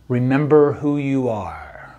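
slow, lightly voiced Mufasa; a hint of a solemn Mufasa, slow and grave; James Earl Jones impression. Dad quoting The Lion King to his kids going out, slow light Mufasa voice. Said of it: "in my best James Earl Jones voice".

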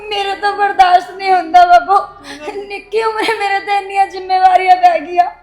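breaking down in sobs; crying. Acted. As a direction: sob it out, overwhelmed. She breaks down, frightened. (ਹੁਬਕੀਆਂ ਭਰਦੀ)

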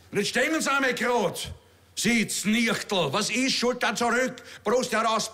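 bellender Ausbilder, der Rekruten anschnauzt; brüllender Major. Acted. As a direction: herrischer Kasernenton mit Wiener Färbung. Kabarettist spielt brüllenden Major. (Major schnauzt den Rekruten an)

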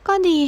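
a short fine then a huge sigh; heavy sigh. Acted. Tired young worker answering his friend with a heavy sigh. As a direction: blow out the loudest sigh after a tired fine. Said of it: "ถอนหายใจใส่เบอร์แรงสุด".

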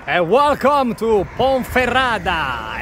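slow, loud, high announcement; excited. Real, not acted. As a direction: proclaim the arrival triumphantly. Arriving in Ponferrada. (annuncio entusiasta)

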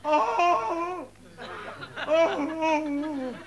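high, wailing cries of dismay; mock wailing over a fallen friend; hammed-up distress. Finds Fred after the fight.

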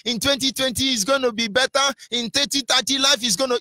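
lightly voiced naive hope; mock complacent optimism. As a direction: parody people shrugging it off. Mocking complacent citizens.

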